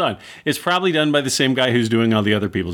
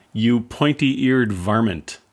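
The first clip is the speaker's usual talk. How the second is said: quoting a line; slower than usual. Retold or imitated. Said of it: "one of the characters calls Spock".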